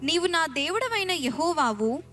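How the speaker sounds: ordinary talk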